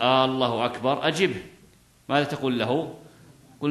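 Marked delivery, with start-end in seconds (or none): 0.0-1.1 الله with a long opening "Aaa"; lengthened hamza, questioning. Shown as a demonstration. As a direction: draw out the first A of الله and let the phrase rise like a question. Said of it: "استفهاما". (مدّ همزة «الله» بصيغة استفهام)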